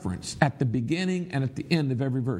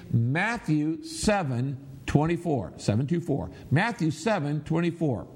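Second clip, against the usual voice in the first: leading group recitation. Shown as a demonstration. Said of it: "everybody say it with me".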